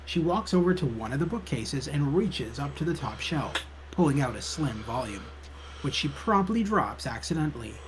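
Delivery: measured storytelling read; game narration. A narrator's reading. Narrator describes librarian fetching a book, story narration. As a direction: narrate the scene step by step.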